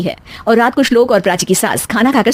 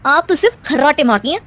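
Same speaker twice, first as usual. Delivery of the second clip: teasing daughter-in-law; 5 semitones higher than usual. Acted. Daughter-in-law teasing her mother-in-law, sly and playful.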